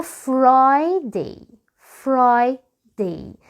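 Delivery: Friday very slowly, 'Fry... day', English R. Shown as a demonstration. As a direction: stretch Friday in two parts with a non-Arabic R. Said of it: "نطقه مختلف تمامًا".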